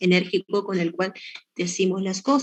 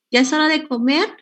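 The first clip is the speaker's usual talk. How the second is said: sweet mother; 6 semitones higher than usual. Retold or imitated. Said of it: "con el mismo tono de voz todo dulce".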